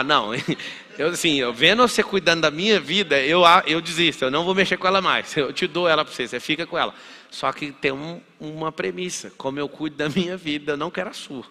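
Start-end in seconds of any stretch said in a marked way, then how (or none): 0.0-6.9 loud, laughing mock give-up; mock surrender. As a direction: hand your life over, half laughing. Imagined listener giving up, laughing. (rendição brincalhona, alta e rindo)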